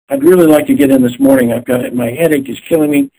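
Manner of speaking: imitating a patient. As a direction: play the caller begging for a morning slot. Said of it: "they declared".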